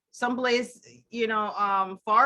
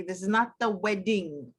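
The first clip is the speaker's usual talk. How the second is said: not the wedding, with not leaned on; stress on not; 3 semitones lower than usual. Shown as a demonstration. Host to co-host, clarifying, stress on not. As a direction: lean on the word not to set it apart. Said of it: "I wanna make that clear".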